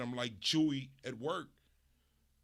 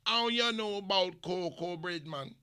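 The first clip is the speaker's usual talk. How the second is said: put-on Jamaican accent. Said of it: "And watch them say".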